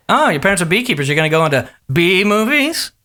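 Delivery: lightly imitated host setting up a pun; Jay. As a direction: land the big joke as a question. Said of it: "He's like".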